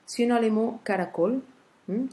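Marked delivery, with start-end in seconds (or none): 0.8-1.4 caracol with the final "col" stressed; stress on last syllable. Shown as a demonstration. Teacher shows pupils the tonic syllable, final stress on caracol. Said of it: "c'est la dernière syllabe".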